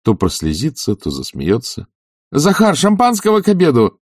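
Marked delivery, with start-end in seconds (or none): 2.3-4.0 much higher, loud joyful call; shout. Acted. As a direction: call out to the servant across the house. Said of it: "закричал он". (громкий радостный крик)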